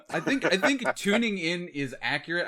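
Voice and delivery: laughing. Real, not acted. Host reassuring guest on his wording, laughing as he talks. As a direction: talk through a laugh.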